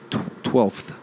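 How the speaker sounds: twelfth whispered, testing the F. Shown as a demonstration. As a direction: whisper twelfth to yourself, puzzled. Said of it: "maybe it's a silent F".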